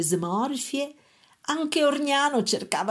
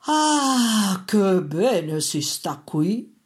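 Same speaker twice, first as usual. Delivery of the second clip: content exclamation; 3 dB louder, much slower than usual. A narrator's reading. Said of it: "aveva appena esclamato Orgnano".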